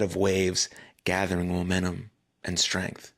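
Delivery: calm meditation voice with long pauses; guided meditation. Acted. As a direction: guide them gently through it, unhurried, pausing between phrases. Leads the guided urge-surfing meditation.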